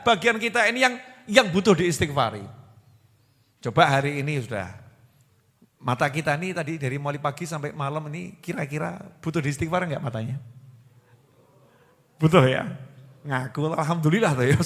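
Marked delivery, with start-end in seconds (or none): none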